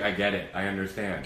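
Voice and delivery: soft, low soothing voice; calm them down quietly; hushed calm driver imitation. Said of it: "He was like".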